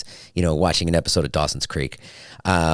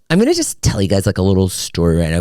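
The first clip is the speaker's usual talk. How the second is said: mock Taylor; 3 dB louder, faster than usual. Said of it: "She does that thing".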